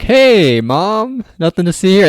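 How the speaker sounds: high, fake-casual cover-up; mock innocent, high-pitched. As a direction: act innocent to Mom. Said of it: "and they're like".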